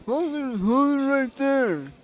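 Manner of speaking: high, loud call to stop. Acted. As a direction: shout her to a halt. Olga calls out to Alyssa.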